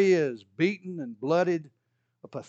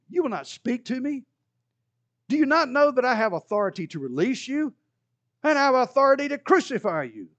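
higher, louder rising challenge; Pilate demanding; 7 semitones higher, 4 dB louder than usual. Acted. Pilate confronting silent Jesus about his authority. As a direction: push him to answer.

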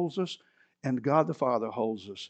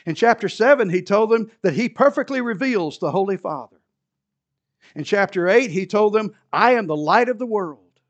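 loud, raised proclamation from the pulpit; forceful preaching; 5 semitones higher, 7 dB louder than usual. Real, not acted. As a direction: drive each declaration home to the congregation.

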